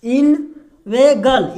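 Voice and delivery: इनवेगल drawn out very slowly, each syllable clear; teacher stretches इनवेगल slowly so students copy the sound; slow demo. Shown as a demonstration. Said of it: "इसको क्या पढ़ेंगे".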